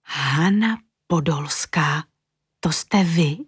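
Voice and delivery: slow, breathless whisper of wonder; girl amazed to meet the famous designer; awed whisper. A narrator's reading. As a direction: whisper the famous name in awe.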